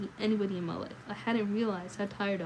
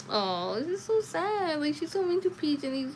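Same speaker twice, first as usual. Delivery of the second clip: sad reaction; 8 semitones higher, 3 dB louder than usual. Real, not acted. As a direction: let the sadness of the story show. Reader reacts to sad story.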